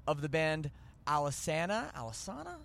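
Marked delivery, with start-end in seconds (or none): 1.1-1.9 "Alesana" with a short a as in "cat", questioning lift; trying a pronunciation. Shown as a demonstration. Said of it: "I don't even know what it is". 1.9-2.6 "Alesana" as al-uh-SAH-nuh, higher, softer, questioning; alternative pronunciation. Shown as a demonstration. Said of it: "I don't even know what it is".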